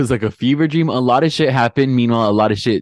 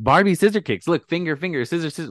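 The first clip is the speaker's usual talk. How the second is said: higher mocking imitation; mock demo of scissor kicks; mocking Angie; 6 semitones higher than usual. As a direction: parrot her gesture talk, a bit higher. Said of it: "for her to be like".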